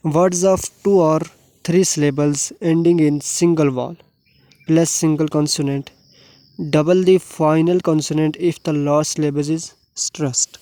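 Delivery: very slow, deliberate dictation of the rule; rule read aloud. Shown as a demonstration. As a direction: spell the rule out word by word for students. Reads English rule aloud. (बहुत धीरे, शब्द-शब्द पढ़ना)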